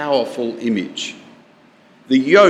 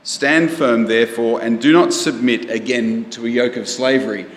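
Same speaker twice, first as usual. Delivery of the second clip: scripture reading; 2 semitones lower than usual. Shown as a demonstration. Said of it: "Have a look at verse one with me".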